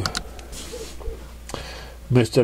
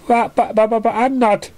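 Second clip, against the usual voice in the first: stammering; 11 semitones higher than usual. A narrator's reading. Surprise stammering.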